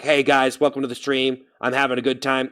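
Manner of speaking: upbeat, projected stream greeting; energized streamer voice. Shown as a demonstration. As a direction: lift it up for the stream. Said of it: "you see how it kinda picked up".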